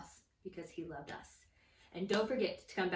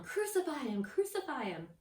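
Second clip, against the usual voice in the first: mildly raised mock chant; restrained mob chant, pitched up; crowd yelling; 5 semitones higher than usual. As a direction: imitate a yelling crowd, half-strength. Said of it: "they were yelling".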